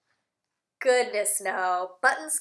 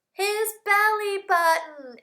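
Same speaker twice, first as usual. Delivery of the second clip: surprised reveal; 7 semitones higher, 4 dB louder than usual. Acted.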